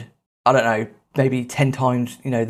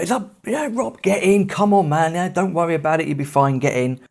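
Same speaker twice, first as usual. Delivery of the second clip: retold shout; 4 semitones higher than usual. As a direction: imitate a mate calling out from the boat, pitch lifted. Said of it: "Aaron shouting at me from the boat".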